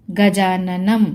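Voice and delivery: गजाननम ending on a hummed "m"; anusvara as m. Shown as a demonstration. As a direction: close गजाननम firmly on the m. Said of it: "तो म की आवाज़ आएगी". (गजाननम के अंत में "म" की आवाज़)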